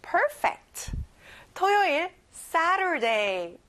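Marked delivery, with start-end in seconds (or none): 2.3-3.6 very slow "Saturday", SA stressed, T flapped; stressed SA, soft T. Shown as a demonstration. Teacher showing children how to say it, "Saturday" stressed on SA without a hard T. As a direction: draw out "Saturday", leaning on SA. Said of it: "앞에 세 강세를 두고요".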